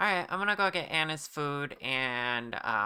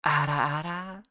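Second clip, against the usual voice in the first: playful shout; 3 semitones higher, 4 dB louder than usual. Acted. Playful cry to chat.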